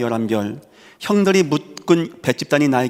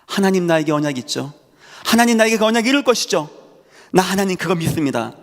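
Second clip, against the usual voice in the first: pleading prayer; 6 semitones higher than usual. Retold or imitated. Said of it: "그렇지 않죠".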